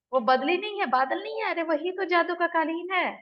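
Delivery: pitched high with eager insistence. Retold or imitated. Lakhan runs up telling the kids it's a flying carpet, pitched high and eager. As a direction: push the pitch up, thrilled and sure of himself.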